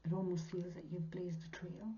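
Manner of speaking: hushed awe; whispered. Real, not acted. Describing the Queen of Wands, whispered awe. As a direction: half-whisper the image. Tarot reading encouragement.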